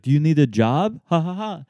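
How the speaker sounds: put-on loud, high lightly French-accented offer; mock French bartender offering a job with a laugh. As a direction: chuckle it with a French lilt. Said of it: "and he's like".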